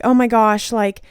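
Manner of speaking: lightly acted frantic inner voice; panicky ego voice. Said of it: "The ego starts freaking out".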